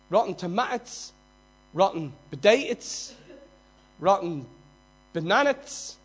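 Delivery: put-on loud jeering in a Dublin accent, rotten tomatoes; comic Dublin heckler calling out; mock Dublin heckle. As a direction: lob the Dublin jeer like a thrown tomato. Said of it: "That was supposed to be funny".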